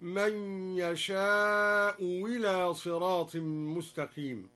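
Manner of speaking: "يشاء إلى" as "yasha'u wila"; slow recitation, a clear w opening "إلى" after "يشاء"; hamza turned to waw. Shown as a demonstration. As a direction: say the first sound of "إلى" as w. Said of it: "أو أبدلها واوا".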